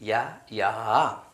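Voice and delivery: യാ, യാ drawn out slowly; teacher modelling യാ slowly; slow sound demo. Shown as a demonstration. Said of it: "യാ എന്നും ഉച്ചരിക്കും".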